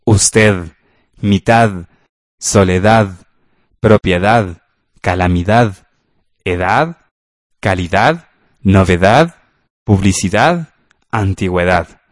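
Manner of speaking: each word ending in a clearly sounded d, as in "soledad" and "edad"; careful final D. Shown as a demonstration. Radio teacher reading word list for students to repeat. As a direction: pronounce the d at the end of "Usted", "mitad", "calidad". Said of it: "pongamos mucha atención al pronunciar la D al final".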